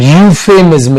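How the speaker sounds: यूफेमिज्म opened on a clear "yu" glide; starts with Y sound. Shown as a demonstration. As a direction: lean on the y that begins यूफेमिज्म. (यूफेमिज्म, शुरू में साफ़ "य" की आवाज़)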